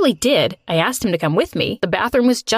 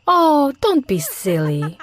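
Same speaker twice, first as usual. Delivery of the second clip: with a laugh; slower than usual. A narrator's reading. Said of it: "she said with another laugh".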